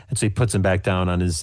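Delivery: ordinary delivery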